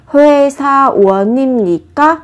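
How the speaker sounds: 회사원입니까 with the N carried onto 입, hoe-sa-wo-nim-ni-kka; linked N sound. Shown as a demonstration. Teacher models 회사원입니까 for learners, N linked forward. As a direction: link the N of 회사원 into 입니까 smoothly. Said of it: "Các bạn nối âm phát chim lên nhá. Nối N lên".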